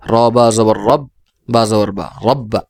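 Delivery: measured spelling drill, doubled ব in "রব্বা" falling at the end; tashdid spelling demonstration. Shown as a demonstration. Teacher showing learners how tashdid is read twice, demonstrative spelling drill. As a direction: spell out "র বা জবর রব", rising, then "রব্বা" with a held double ব. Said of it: "যেমন আমি উচ্চারণ করছি".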